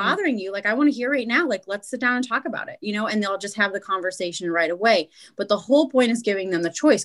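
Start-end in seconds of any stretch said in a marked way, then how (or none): 0.1-2.8 eager invitation. Retold or imitated. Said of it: "may respond and say".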